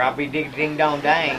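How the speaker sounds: country Oklahoma exclamation; Oklahoma accent. Shown as a demonstration. Actor showing home-state sayings, Oklahoma accent. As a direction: toss it off in an Oklahoma twang. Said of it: "That's the way we talk".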